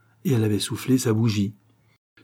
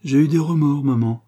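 wheedling, coaxing voice pitched up; 5 semitones higher, 5 dB louder than usual. A narrator's reading. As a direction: coax tenderly, with a raised, emphatic opening. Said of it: "poursuivit d'une voix câline".

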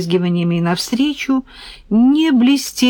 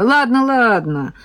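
higher-pitched, lightly squealed giving-in; excited squeal; 5 semitones higher than usual. A narrator's reading. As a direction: squeal it with eager impatience. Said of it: "заверещала Юля".

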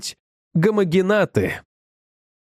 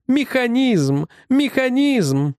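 repeated outcry, rising higher, second one drawn out slowly; exasperated cry; 7 semitones higher, much slower than usual. Acted. Scientist crying out to colleagues in frustration, drawn-out cry.

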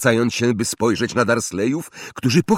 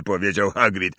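ordinary delivery, nothing marked

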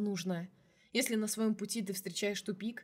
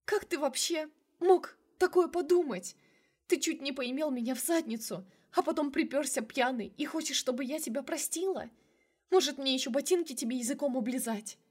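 high, loud, tearful rage; woman screaming at her lover; furious yelling; 6 semitones higher, 3 dB louder than usual. A narrator's reading. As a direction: hurl every word at him. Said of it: "заорала я чуть ли не на весь сквер".

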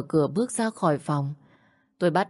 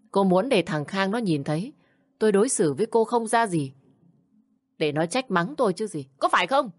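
a touch of suspicious anger, rising to a higher jab; accusing mother-in-law; 3 semitones higher than usual. Acted. Mother-in-law accuses the bride of turning her son, mildly angry.

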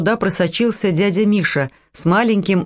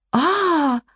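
alarmed cry; 10 semitones higher than usual. A narrator's reading. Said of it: "вскричали все Кондратьевы".

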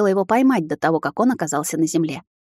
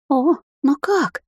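astonished; 8 semitones higher, much slower than usual. Acted. Sister astonished by talking stone.

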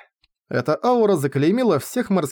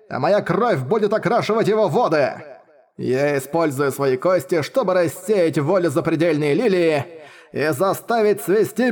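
put-on vengeful old man; 3 semitones higher than usual. Old cultivator's vow.

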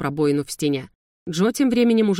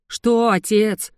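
slow, louder and higher, seething; furious growl; 5 semitones higher, 4 dB louder, much slower than usual. A narrator's reading. Ящер в бешенстве отвечает сыну, рычит. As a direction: drag out Что in fury. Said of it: "в бешенстве прорычал ящер".

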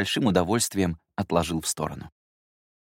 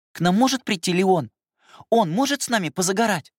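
put-on high, louder pleading child; little girl voice; 12 semitones higher, 4 dB louder than usual. Sister asking her brother not to leave, high child voice. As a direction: beg him to stay, like a small girl.

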